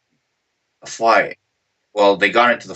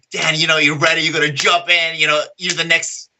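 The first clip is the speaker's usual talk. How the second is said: mildly excited, higher-pitched pep talk; lightly imitated hyped coach; 4 semitones higher than usual. Coach urging his fighter to jump in, mild imitated hype. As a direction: push him on with a touch of hype. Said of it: "coach was so hyped up".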